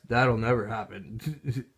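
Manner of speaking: slow, dry sarcasm; sarcastic. Acted. Vlogger mocking the TV network, slow and sarcastic. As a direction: say it like you don't believe a word. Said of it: "Hence the sarcasm".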